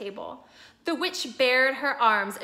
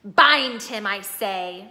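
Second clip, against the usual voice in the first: much louder barked order; commanding witch; 2 semitones lower, 8 dB louder, slower than usual. A narrator's reading. Witch repeating her order to the hags, loud command. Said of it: "repeated the White Witch".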